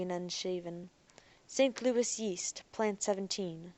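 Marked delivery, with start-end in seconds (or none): 1.5-3.7 machine voice. Acted. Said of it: "said the door".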